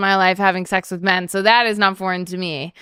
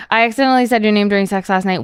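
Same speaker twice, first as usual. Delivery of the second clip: fast text read-out; faster than usual. Shown as a demonstration. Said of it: "reads the text aloud".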